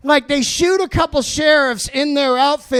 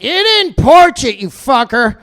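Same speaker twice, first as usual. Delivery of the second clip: angry customer; 4 dB louder than usual. Retold or imitated. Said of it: "they'd call up like".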